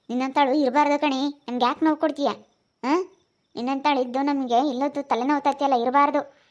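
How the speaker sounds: loud, exasperated telling-off; loud reproach; angry scolding. Real, not acted. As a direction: scold her loudly, fed up. Scolding her for causing trouble.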